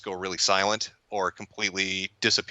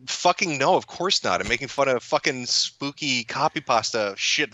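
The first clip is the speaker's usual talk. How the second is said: retold exasperated comeback, higher pitched; mock-outraged reply, pitched up at the start; exasperated retort; 4 semitones higher than usual. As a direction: snap back as if asked something absurd. Mock reply to gullible viewers' questions.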